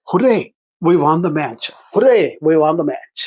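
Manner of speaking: a touch of mock celebration on "Hooray"; mild victory shout. Shown as a demonstration. Teacher shows students cheering a won match, mildly excited shout. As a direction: cry a restrained hooray, as if just winning. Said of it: "ఇలా గట్టిగా అరుస్తారమ్మా".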